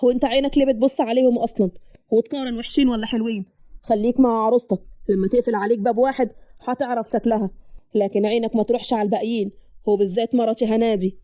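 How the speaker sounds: lightly voiced stern man; possessive brother. Man tells brother to stop eyeing brides, mildly stern.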